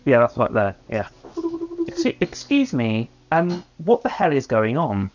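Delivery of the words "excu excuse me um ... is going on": a hint of a posh otherworldly accent; prim upper-class demon asking politely; lightly posh abyssal question; posh demonic voice. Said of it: "But in the really posh abyssal voice".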